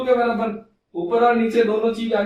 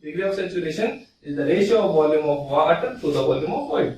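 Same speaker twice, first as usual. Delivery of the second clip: slow definition dictation; 4 semitones lower, much slower than usual. Shown as a demonstration. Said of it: "ये तो हो गया definition".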